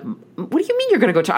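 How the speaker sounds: high, loud disbelieving squeal; shocked at mom's plan, voice shooting up; squealing in disbelief at mom; incredulous. Retold or imitated. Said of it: "And I'm like".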